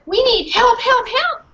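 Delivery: small dog crying no; dog protesting. Acted. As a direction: bark the no's like a desperate dog. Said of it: "I barked again and again".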